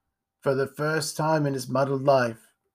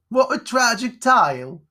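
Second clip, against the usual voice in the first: put-on a higher boy's voice, lightly done; 11 semitones higher, 6 dB louder than usual. Boy reacting to the sad tale, lightly voiced. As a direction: pitch up for a young lad.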